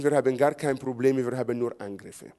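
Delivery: normal talking voice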